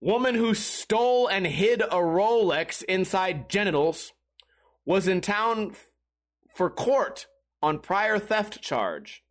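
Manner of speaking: slow, deliberate article reading; headline read. Acted. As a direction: read out a headline, spacing the phrases. Reads the next article's headline.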